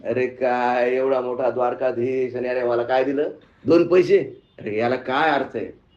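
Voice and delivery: low grumble with a touch of gloom; mildly dejected. Acted. Depressed beggar complains about the two coins, mildly dejected. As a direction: grumble in understated disappointment. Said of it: "आधीच ते depression मध्ये होतं".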